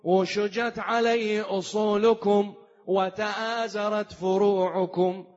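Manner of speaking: measured, melodic chanted oration; intoned classical Arabic oration; sermon recitation. Acted. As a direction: recite it solemnly with drawn-out phrase endings.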